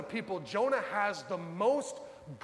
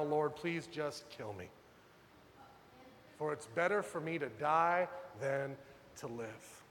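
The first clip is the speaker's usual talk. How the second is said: despairing plea; 4 semitones lower, 5 dB quieter than usual. Retold or imitated.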